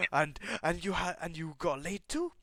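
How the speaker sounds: loud, high, impressed exclaiming; hyped congratulation. Acted. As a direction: gush proudly like an excited wingman. Darby hyped and proud of friend.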